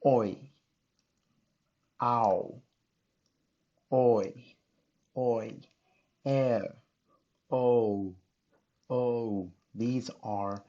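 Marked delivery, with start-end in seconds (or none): 0.0-9.5 oi, ow and air said alone, loud and clear; vowel sounds. Shown as a demonstration. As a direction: call out each double vowel sound on its own.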